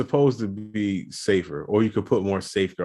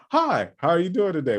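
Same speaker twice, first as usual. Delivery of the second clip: higher, overly friendly phone greeting; fake call-center voice; 8 semitones higher than usual. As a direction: put on the fake friendly caller voice. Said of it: "with the fake voice joint".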